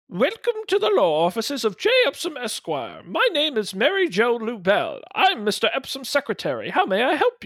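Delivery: polite receptionist greeting, lightly put on; lady secretary voice. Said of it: "give me a lady voice I should do".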